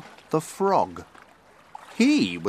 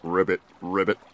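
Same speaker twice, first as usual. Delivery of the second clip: frog croak; 5 semitones lower, faster than usual. A narrator's reading.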